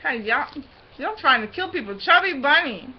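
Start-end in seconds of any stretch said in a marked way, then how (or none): 2.0-2.9 talking through a mouthful; words muffled by marshmallows; cheeks stuffed full. Real, not acted.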